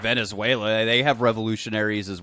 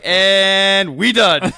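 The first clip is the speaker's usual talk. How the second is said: drawled; 6 semitones higher, 7 dB louder, much slower than usual. Retold or imitated. Mock drawled sign-off line.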